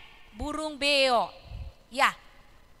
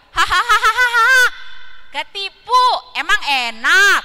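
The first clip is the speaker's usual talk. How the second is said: mocking parrot laugh; 2 semitones higher, 8 dB louder, slower than usual. Parrot laughs at friends it tricked, loud gloating taunt. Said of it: "beonya bilang".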